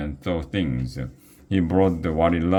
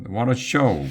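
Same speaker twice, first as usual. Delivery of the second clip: calling out; 6 semitones higher than usual. A narrator's reading. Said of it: "called Aggie".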